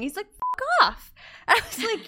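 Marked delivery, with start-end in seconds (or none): 0.3-1.1 put-on high little kid voice; toddler voice. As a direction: play a cheeky toddler. Toddler swears from toilet.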